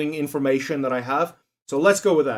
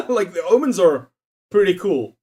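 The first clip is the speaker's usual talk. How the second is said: laughing excitement; 3 dB louder than usual. Real, not acted. Laughing excitedly about omens.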